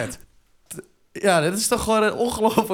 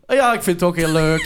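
imitating insincere gushing; mock sarcastic enthusiasm; 4 dB louder than usual. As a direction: parody someone pretending to like it. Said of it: "Waarom klonk dat super sarcastisch?".

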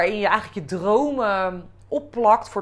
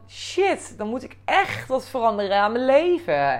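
startled realization; 4 semitones higher than usual. Retold or imitated. Realizes she must change life.

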